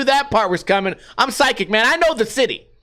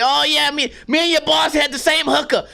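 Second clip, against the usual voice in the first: high-pitched mock yell, Jersey accent; imitated yelling; 7 semitones higher than usual. Store guy yelling from behind the counter, imitated yelling. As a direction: holler it like a Jersey loudmouth. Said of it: "He's yelling the shit from behind the counter".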